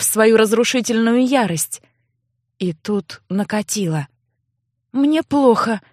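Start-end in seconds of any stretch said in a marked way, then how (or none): none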